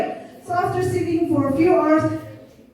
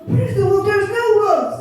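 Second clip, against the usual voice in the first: mock taunting; 7 semitones higher, faster than usual. Boy mocks the fooled villagers.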